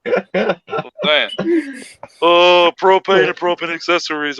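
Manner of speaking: slow, drawling Texan dad voice; a hint of Hank Hill twang. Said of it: "sounds like fucking Hank Hill".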